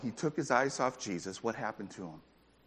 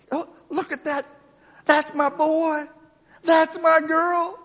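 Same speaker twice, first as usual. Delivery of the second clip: high, slow, swelling proud exclaim; God beaming over his children, louder and louder; God proudly claiming his children, high, rising in volume; delighted God; 5 dB louder than usual. Acted. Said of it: "suddenly he's like".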